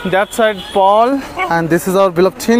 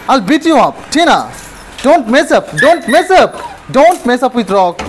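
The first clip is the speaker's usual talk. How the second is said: scolding the dog; 5 semitones higher than usual. Real, not acted. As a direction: tell the dog off sharply.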